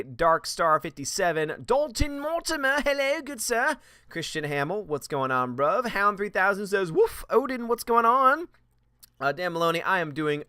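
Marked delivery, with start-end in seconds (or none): 1.7-3.8 much higher, put-on voice for "good sir"; high silly greeting. Streamer greets viewer Dalton Mortimer in a high put-on voice. 6.9-8.5 much higher, put-on puppy voice; playful dog voice. Streamer reads a dog-named viewer's chat as a high puppy. Reading chat from Hound three thousand.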